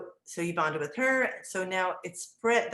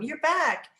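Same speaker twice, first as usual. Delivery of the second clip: higher, louder imitated child's greeting; child calling out; 9 semitones higher, 5 dB louder than usual. Boy sees teacher return, imitated excited call. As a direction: greet her like a thrilled little boy. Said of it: "he kept calling my name".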